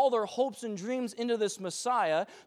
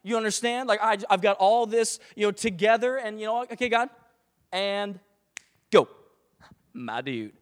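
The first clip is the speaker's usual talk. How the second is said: pushy bro demand; 6 dB louder than usual. Pretend. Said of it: "It's like".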